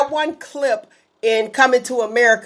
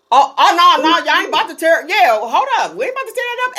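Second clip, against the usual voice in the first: mock indignant refusal; 4 semitones higher, faster than usual. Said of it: "it'd be like".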